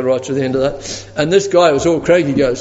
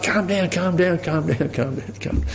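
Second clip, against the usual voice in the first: soothing calm down; 8 dB quieter than usual. Retold or imitated. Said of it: "the guy said".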